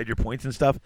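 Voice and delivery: hiccuping mid-sentence; talking through hiccups. Real, not acted. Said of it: "I got the hiccups".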